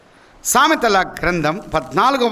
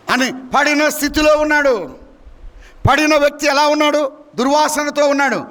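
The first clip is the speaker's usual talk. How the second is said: raised, emphatic preaching voice; 7 semitones higher than usual. Real, not acted. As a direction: declare it to the congregation, pitched up. Preacher raises his delivery.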